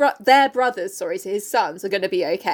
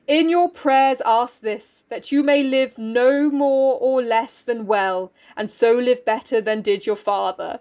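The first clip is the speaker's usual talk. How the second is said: solemn play reading; slower than usual. Acted. Reads Oedipus's parting words.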